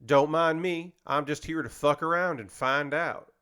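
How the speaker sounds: Southern drawl, cocky and relaxed. Shown as a demonstration. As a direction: drawl it out like a Southern good old boy. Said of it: "that is supposed to be in a southern drawl".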